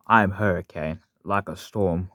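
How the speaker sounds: half-managed engine character voice; lightly put-on character attempt; Hurricane. Shown as a demonstration. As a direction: give a tentative try at a villain-style voice. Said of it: "I can't do my Hurricane voice right now".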